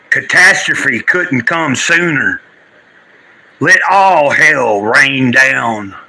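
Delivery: slow, grave spoken-word delivery; solemn recitation. Acted. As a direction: declaim it slowly like a poem. Dramatic recitation opening the stream.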